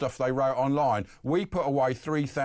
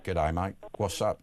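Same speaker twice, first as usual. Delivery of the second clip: a lightly done Aussie greeting, lower; mock Australian accent; 6 semitones lower than usual. Radio host greeting an Aussie caller in mock Australian accent. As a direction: play at being Australian with Good day, mate. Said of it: "See, I speak Australian".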